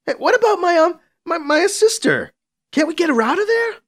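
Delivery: put-on a high, eager kid begging; high young pleading voice. Young Piccolo pleading for sister.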